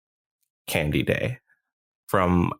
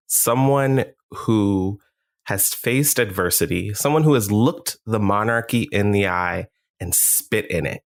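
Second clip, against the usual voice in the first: hype man. Acted. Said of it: "you are the hype man for Gingerbread Man".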